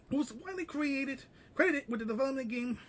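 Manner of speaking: breathless reading; out of breath. Real, not acted. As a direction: read short of breath. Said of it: "sorry, I'm a little bit out of breath".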